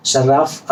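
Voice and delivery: शर्राफ with a rolled double r, rising at the end; शर्राफ as a teacher says it; Arabic word demo. Shown as a demonstration. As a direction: model शर्राफ as a question-like demo. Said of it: "और उसके बाद है शर्राफ".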